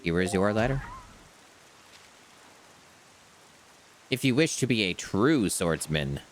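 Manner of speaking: slow, formal greeting then letter read; a polite postman handing over mail; mail carrier. Acted. Postman delivering a swordsman's letter, slow and formal. Reads mailbox and letter text.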